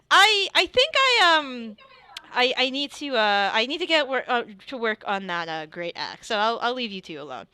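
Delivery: lifted, quick sly exit line; smirking Alfred. Acted. Alfred leaving the couple alone, sly smirking voice. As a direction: tease them as you leave. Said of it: "he smirks, and he's like".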